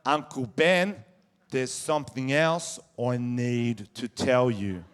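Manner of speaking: hint of a kid solemnly sharing a secret; lightly voiced young nephew. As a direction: draw out a child's big announcement. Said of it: "He liked the reaction, he tries again".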